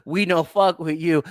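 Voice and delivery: lightly put-on Chinese accent, chuckling lead-in; a hint of a mock Chinese accent. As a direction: slip into a slight imitation Chinese accent. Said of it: "Why did I say that in Chinese voice?".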